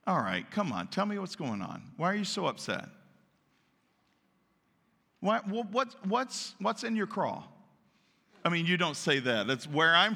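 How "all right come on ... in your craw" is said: good parent. Acted. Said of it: "a good parent says".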